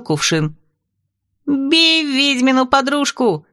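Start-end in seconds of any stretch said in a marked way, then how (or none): 1.5-3.5 high, slow rallying call; battle cry. A narrator's reading. Steppe princess urging the brides to attack, battle cry. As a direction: rouse the others to attack. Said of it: "кинула клич степная княжна".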